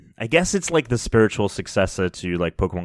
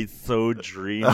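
swooning schoolgirl; 4 dB quieter than usual. Retold or imitated. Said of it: "a girl in middle school writing about her crush".

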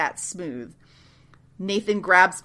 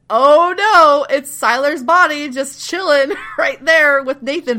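loud, high, stretched-out "oh no"; hammed-up shock; mock alarm; 7 semitones higher, 6 dB louder than usual. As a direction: announce the disaster with theatrical dismay. Mock alarm recapping a plot twist.

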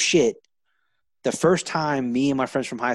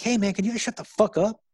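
retold snap; 10 semitones higher than usual. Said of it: "I lost it".

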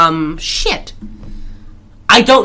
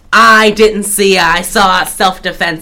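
retold saloon boss; slower than usual. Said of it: "Burt Kavanaugh says".

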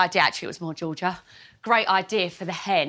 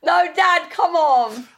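exasperated; 8 semitones higher, 5 dB louder, slower than usual. Real, not acted. Daughter protesting dad's answer.

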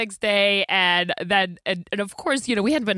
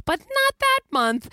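laughing; slower than usual. Real, not acted. Laughing at the baby plan.

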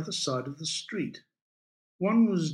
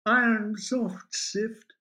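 high, slow, maudlin murmuring of verse; mildly tearful drunken reverie; 9 semitones higher, slower than usual. A narrator's reading. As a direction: recite slowly through self-pity. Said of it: "began to sob quietly".

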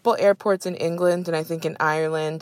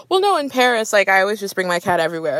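mock Parisian lady; faster than usual. Cat lady explaining to check-in staff, breezy and entitled. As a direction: toss it off like it's obvious. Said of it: "She's like".

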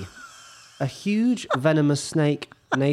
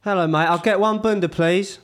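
ordering at a counter; 5 semitones higher than usual. Pretend.

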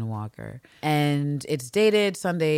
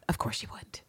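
whispered, knowing aside; sarcastic whisper; 5 semitones lower, 10 dB quieter than usual. Real, not acted. Podcaster mutters to cohost, whispered sarcastic aside. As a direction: breathe it out, unvoiced and knowing.

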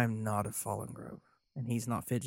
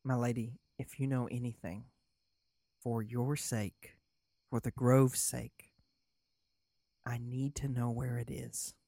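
earnest plea. Acted. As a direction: press her gently but firmly. Lorik pleading quietly.

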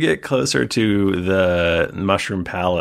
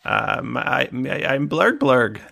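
higher, hesitant captive creature; Blurg Blurg; 6 semitones higher than usual. Acted. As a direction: stammer out a shy introduction, pitched up. Game master voices captive Blurg Blurg.

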